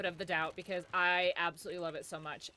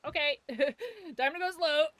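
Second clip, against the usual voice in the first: laughing quote; 7 semitones higher, 5 dB louder than usual. Retold or imitated. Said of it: "we're like".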